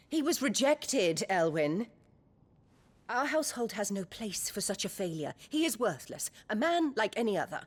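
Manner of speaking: contemptuous, quickening at the end; scornful. Acted. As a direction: spit out the disgrace of her son. Mother scorns her rejected son.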